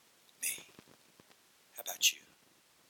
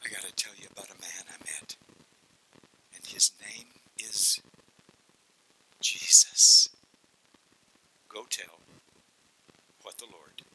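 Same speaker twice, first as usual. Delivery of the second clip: hushed testimony; 4 dB louder than usual. Acted. Husband telling softly of Jesus.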